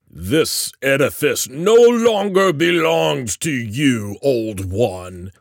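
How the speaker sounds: high, loud, drawn-out goblin taunt; cackling goblin. A narrator's reading. Goblin claiming the old one's house, cackling. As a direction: gloat slowly like a wicked goblin. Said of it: "Gugamon cackled".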